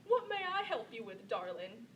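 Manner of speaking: put-on a kindly Southern old man's offer; southern twang. Grandfather asks the grandchild on the phone, Southern accent. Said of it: "he said in his southern twang".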